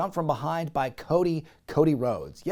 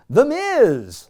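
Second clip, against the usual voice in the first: loud, high shout of the name; mock shout; 9 semitones higher, 8 dB louder than usual. Wrestler on the mic, loud mock shout. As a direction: yell it out like the wrestler. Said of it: "he's like".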